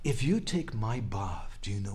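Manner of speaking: sweet voice. Retold or imitated. Radharani reasoning with Hari, in a sweet voice. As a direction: voice her sweetly and quietly. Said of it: "in a very sweet voice she said".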